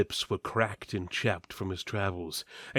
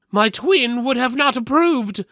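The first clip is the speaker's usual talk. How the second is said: much higher, louder, prim disapproving voice; solemn twin; 12 semitones higher, 8 dB louder than usual. Acted. Surviving twin to the party, high and prim. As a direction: mourn and scold in one. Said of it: "the twin that was still alive said".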